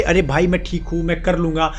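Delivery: forced "I'm fine". Retold or imitated. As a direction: pretend to be fine while hurting, voice sinking. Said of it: "वो कितना भी बोले".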